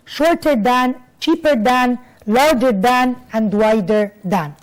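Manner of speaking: careful classroom model sentences; slow teaching examples. Shown as a demonstration. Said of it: "زودنا ال اي ار".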